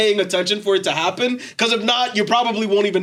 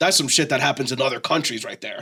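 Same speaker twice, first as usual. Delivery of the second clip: put-on mutter under breath, lower pitch; 8 semitones lower, 4 dB quieter than usual. Retelling what the man on his left said under his breath, retelling a muttered remark. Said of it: "mumble some shit under his breath".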